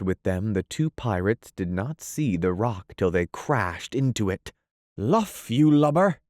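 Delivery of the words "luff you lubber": high, loud Irish pirate shout; Irish pirate cry. Acted. Irish pirate Smee yelling at his shipmate. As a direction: bellow it like an Irish sea dog. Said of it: "cried an Irish voice that was Smee's".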